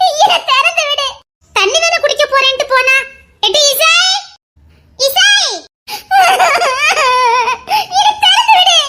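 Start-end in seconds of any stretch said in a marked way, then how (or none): 6.2-8.8 slow, drawn-out crying plea; woman begging through tears to be let out; tearful plea. Acted. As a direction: stretch it out, half sobbing.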